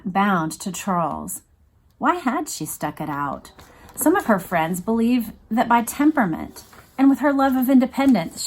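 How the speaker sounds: steady reading-aloud voice; measured, even nonfiction narration; book reading. Acted. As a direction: read the passage like an audiobook narrator.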